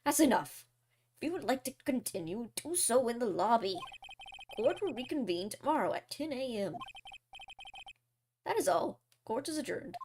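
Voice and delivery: a hint of a stern old judge. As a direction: call the court to order, then close the session. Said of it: "I assume you didn't think I sounded like the judge".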